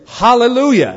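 high-pitched imitated call from a crowd; crowd exclamation. People in a Mexico City crowd, imitated high exclamation. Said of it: "a few people in the crowd would say".

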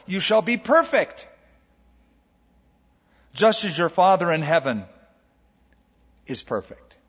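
a stern decree that fades out; demanding command. Shown as a demonstration. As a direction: lay the demand on them and let it fall away. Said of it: "listen to how it would sound on their ears".

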